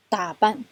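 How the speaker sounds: 打扮 with 扮 very light; 打 stressed, 扮 short and light; neutral tone demo. Shown as a demonstration. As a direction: say 打扮, 扮 barely touched. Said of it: "后面这个扮就很轻".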